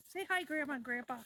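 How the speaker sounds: put-on high sing-song baby talk. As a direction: coo it in a high voice. Talks for the dogs.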